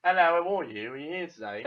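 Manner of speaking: a light, hammed-up British accent on a greeting; mock British accent. Co-host reading a follow in a fake British accent. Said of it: "British accent".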